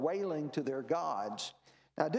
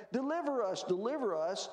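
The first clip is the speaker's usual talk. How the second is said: mock pleading wail; 7 semitones higher than usual. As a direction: imitate worshippers pleading to their gods. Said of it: "they're wailing to their gods".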